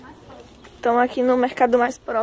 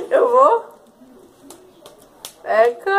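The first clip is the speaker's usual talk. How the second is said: disgusted; 8 dB louder, slower than usual. Real, not acted. Biting the hot pepper.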